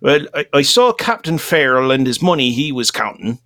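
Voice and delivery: light Scottish brogue; hammy Scottish storyteller voice; Scottish accent. Acted. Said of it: "Scottish now?".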